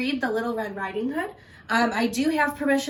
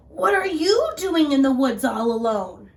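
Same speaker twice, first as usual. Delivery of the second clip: sly wolf; 4 semitones higher, 7 dB louder than usual. Acted. Wolf voiced in story.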